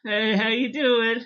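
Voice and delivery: high-pitched imitation of an errand boy; put-on squeaky voice rising into a cackle; Orochi. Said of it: "we see the new errand boy".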